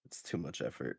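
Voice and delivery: low, soft sick voice; croaky under-the-weather voice. Real, not acted. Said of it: "the sick voice".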